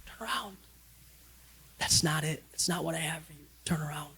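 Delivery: God's quiet, gentle turn around; soft calling. Retold or imitated. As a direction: call them back softly. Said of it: "We're just driving".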